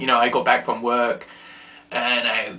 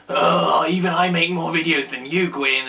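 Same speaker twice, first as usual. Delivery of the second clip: mock teasing; 4 semitones higher, 3 dB louder than usual. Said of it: "making fun of her".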